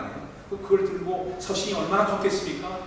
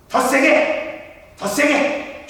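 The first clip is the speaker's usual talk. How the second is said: loud, much higher shouts; harder shout; 9 semitones higher, 9 dB louder, much slower than usual. Retold or imitated. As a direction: demand it louder each time. Father demands harder blows.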